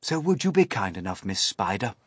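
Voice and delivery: put-on old grasshopper. A narrator's reading. Grasshopper sends everyone to bed.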